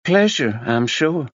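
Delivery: breezy American drawl, a touch airy; American accent. A narrator's reading. Tina answering Max in a breezy American accent. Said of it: "She spoke in an American accent".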